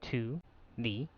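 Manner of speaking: bitcrushed, glitchy robot audio; robotic voice. Real, not acted. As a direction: talk like a broken robot. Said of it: "I sound like a robot right now".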